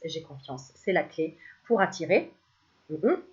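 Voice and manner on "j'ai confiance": j'ai confiance murmured much softer and lower; softly repeated mantra. Shown as a demonstration. Cartomancer models the confidence mantra, fading much softer. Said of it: "Tu répètes ça tout le temps".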